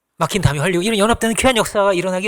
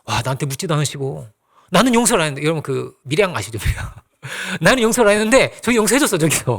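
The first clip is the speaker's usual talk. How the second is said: sulky complaint. Pretend. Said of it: "빌레몬도 마음이 상할 수 있잖아요".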